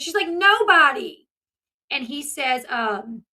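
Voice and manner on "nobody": put-on high, loud, drawn-out teen retort; imitated irritation. Daughter denying it to father, mimicked irritation. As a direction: stretch it out like an exasperated teenager. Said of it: "She gets kinda irritated".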